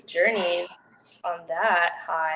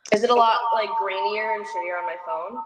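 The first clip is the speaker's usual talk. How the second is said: cave echo. Real, not acted. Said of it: "sounds like you're in a cave and everything's echoing".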